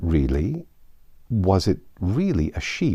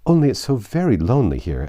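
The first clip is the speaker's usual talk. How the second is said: melancholy; 3 semitones higher, 5 dB louder than usual. Acted. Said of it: "in a melancholy voice".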